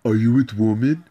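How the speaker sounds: imitating his wife's broken English, rising; mock broken English. Man mocking his wife's broken English question. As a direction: parrot her missing article as a question. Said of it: "She wouldn't even know how to say".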